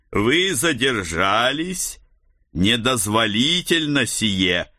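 lightly metallic stranger, unhurried. Acted. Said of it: "каким-то странным металлическим голосом произнесла фигура". (странный металлический голос)

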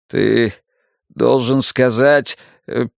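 slow words that break off. Acted. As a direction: let the voice give out mid-sentence. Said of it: "Его голос прервался".

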